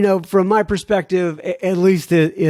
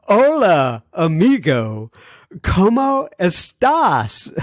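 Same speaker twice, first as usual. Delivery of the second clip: sing-song Spanish hello, slowed; playful greeting; 4 semitones higher, much slower than usual. Retold or imitated. Host reading a listener's teasing email, playful mock greeting. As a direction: tease the host with a cheery Spanish hi. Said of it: "she's kind of mocking me here".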